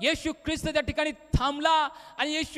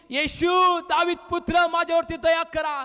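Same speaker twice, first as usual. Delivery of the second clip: insistent loud plea for mercy; raised, urgent beggar's cry; shouting more; 3 semitones higher, 4 dB louder, slower than usual. Acted. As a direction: call out over the crowd. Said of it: "पण तो अधिकच ओरडला".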